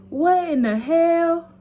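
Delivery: high slow shocked yell; mom's shocked yell. Retold or imitated. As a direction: yell in disbelief at the garage. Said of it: "All I hear is".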